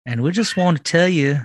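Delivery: light Southern accent for a mock radio ad, folksy and friendly. Podcast host doing a joke commercial on a dare, light Southern accent. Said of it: "Do it in, in a Southern accent".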